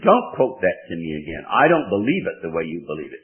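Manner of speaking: hammed-up irritated retort; retold angry woman. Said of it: "She said".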